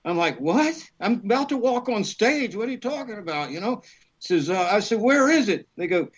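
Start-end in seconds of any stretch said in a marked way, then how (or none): 0.4-3.5 retold shock. Retold panic call from agent. 5.0-5.7 retold surprise. Retold call from agent.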